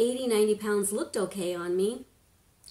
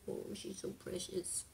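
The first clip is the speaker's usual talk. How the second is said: soft whisper; 14 dB quieter than usual. Real, not acted. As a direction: barely voice it, she's asleep. Baby asleep nearby.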